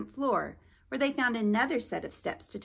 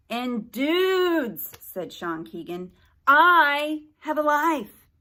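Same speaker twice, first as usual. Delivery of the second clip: slow, high complaining drawl; whiny teen voice; 6 semitones higher, 8 dB louder, much slower than usual. Acted. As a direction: whine like a bored teen. Sean again.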